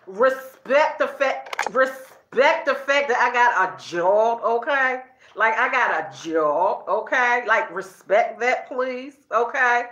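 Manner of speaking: slow, deliberate "respect the fact"; emphatic plea. Retold or imitated. Wife pleading with family to respect her job, slow and emphatic. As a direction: spell it out slowly, leaning on each word.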